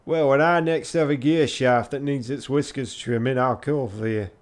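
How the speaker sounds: hammed-up irate Yorkshire; irate Yorkshire artificer. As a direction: retort crossly in attempted Yorkshire. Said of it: "her irate tone and her masculine".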